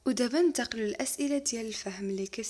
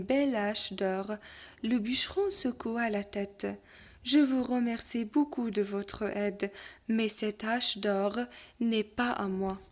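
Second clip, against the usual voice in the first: lecture de conte; much slower than usual. Acted. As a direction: lecture lente et posée d'un conte. Reading the tale aloud. (maître qui lit un conte lentement à sa classe)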